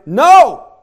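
forceful shouted no; strong no. Shown as a demonstration. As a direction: make this the strongest no. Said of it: "one of the strongest no's in the Greek language".

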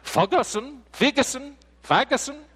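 high, loud mock exasperation; exasperated repeating. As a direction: say the name over and over, fed up. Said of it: "difficult to pronounce your own name".

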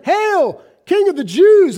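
high, loud mocking cry; loud sneering hail; mocking shout. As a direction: jeer it like a soldier. Soldiers mocking Jesus.

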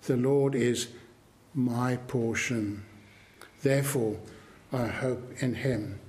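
measured, assured declaration with pauses between phrases; confident assurance. Retold or imitated. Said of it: "He's speaking with confidence, with assurance".

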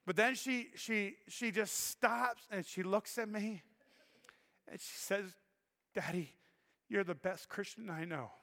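slowing down, voice dropping as emotion rises; choked up, holding back tears. Real, not acted. Pastor retelling his daughter's words to the congregation, choked up and hushed. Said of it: "I'm gonna try and do it without crying".

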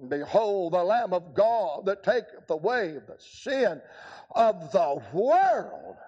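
slow solemn proclamation; a hint of John the Baptist; lifting up his voice. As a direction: proclaim it like the prophet. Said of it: "lifting up his voice".

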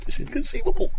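very high put-on quoting voice; movie catchphrase. Host repeating the Princess Bride line, high mock movie voice. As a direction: squeeze the film line out way up high. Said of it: "That's from Princess Bride".

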